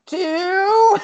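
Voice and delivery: high, slow, dragged-out counting of coins; slow fussy customer. Retold or imitated. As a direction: imitate the lady fumbling with change. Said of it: "And she's like".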